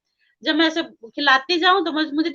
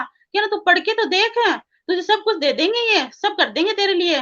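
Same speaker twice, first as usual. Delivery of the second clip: lively, higher-pitched coaxing; retold urging; 5 semitones higher than usual. Friend urging a sceptic to read, eager coaxing. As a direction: talk a reluctant friend into it, pitch lifted.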